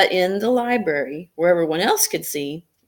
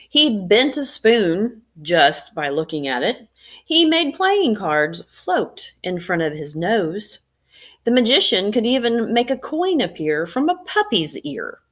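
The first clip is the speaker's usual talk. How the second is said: put-on lively read-aloud voice for children; story narration. A narrator's reading. Teacher reading a picture book to students, lively storytelling.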